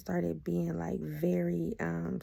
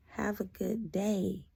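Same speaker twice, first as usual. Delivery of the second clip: drawn-out, pointed sign-off; slow dismissal; much slower than usual. Retold or imitated. Woman done with her ex, slow dismissal. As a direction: end it slowly and deliberately. Retold dismissal ending the exchange.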